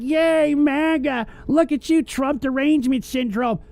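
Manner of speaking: high, sing-song mock of fans cheering; mocking chatters. Host mocking maga chatters with a silly high voice. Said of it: "people in here that are like".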